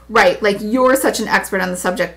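sneering put-down; derisive. Acted. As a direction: scoff at her expertise. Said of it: "Blake was openly derisive".

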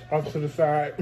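talking with food in mouth; words around a mouthful; mouth full. Real, not acted. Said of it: "shoving this food in my mouth".

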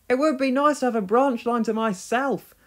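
James, high and longing, dreamily wishing; wistful. Acted. James tells the big engines his wish, wistfully. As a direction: sigh the wish aloud, a touch of longing. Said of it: "remarked James wistfully".

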